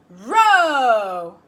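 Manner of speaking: loud croaked Row; frog voice. Acted. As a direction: belt it like a singing frog. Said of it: "said a voice".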